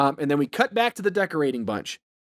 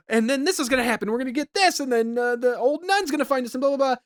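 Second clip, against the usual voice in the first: fast, higher, rushing panic; mock panic; 6 semitones higher, faster than usual. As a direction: rattle it off in a frantic rush. Henrietta panicking, retold.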